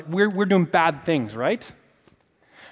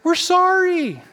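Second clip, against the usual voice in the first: sheepish apology; 11 semitones higher, slower than usual. Retold or imitated. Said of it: "everybody's like".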